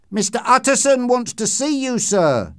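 high, loud call; shouting. A narrator's reading. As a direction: call out to someone behind a door. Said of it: "he shouted".

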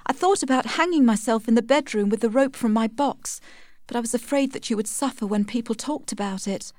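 high-voiced, troubled confession; distressed Tess. A narrator's reading.

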